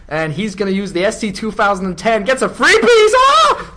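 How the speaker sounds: hammed-up American commentator voice; American accent. Shown as a demonstration. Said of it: "try an American accent".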